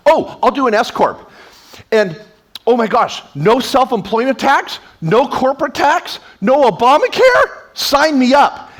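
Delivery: rising, eager mock enthusiasm; eager client. Client eagerly picking S Corp.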